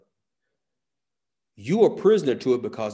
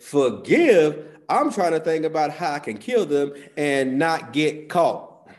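higher, louder incredulous scoff; flesh talking; 5 semitones higher, 6 dB louder, slower than usual. Retold or imitated. Preacher voicing his flesh, mocking scoff. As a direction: sneer it like your sinful side. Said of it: "My flesh said".

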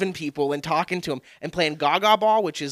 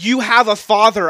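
mock church greeter; 5 semitones higher, 10 dB louder than usual. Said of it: "They were like".

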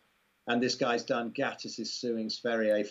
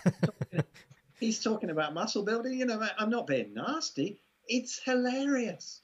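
much higher, laughing through the words; can barely get it out for laughing; giggling at the absurdity; 10 semitones higher than usual. Real, not acted. Laughing at absurd muscle claims.

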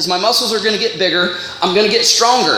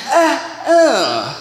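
laughing grunt at a bad gift; mock let-down chuckle; disappointed laugh; 2 semitones higher than usual. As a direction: laugh it off in letdown. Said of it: "he's like".

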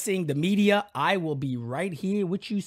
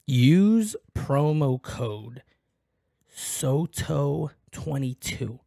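drawn-out, deep, slow reveal; low slow secret-sharing promo voice; slow dramatic promo read; 4 semitones lower, much slower than usual. Shown as a demonstration. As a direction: lean in and spell it out slowly. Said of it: "Let me say it again to you".

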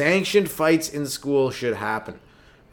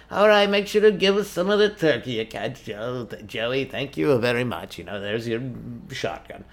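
put-on old lady voice. Old lady hands over gun.

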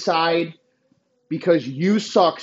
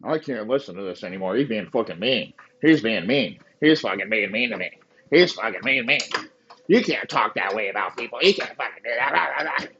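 lower, fast whining impression; mock whiny listener; 9 semitones lower than usual. Mocking an offended fan who complains, whiny. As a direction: whine like a hurt fan.

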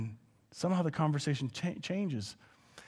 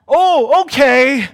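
mock casual acceptance; 9 semitones higher, 13 dB louder, much slower than usual. Jesus accepts invitation.

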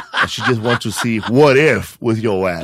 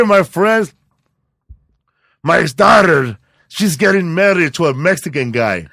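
imitating German guy; 3 semitones higher than usual. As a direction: play the friendly German dad puzzling over his daughter. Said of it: "this German guy comes in with his lady".

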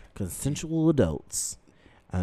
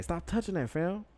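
yelling; 11 semitones higher than usual. Real, not acted. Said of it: "Stop yelling at me like a child".

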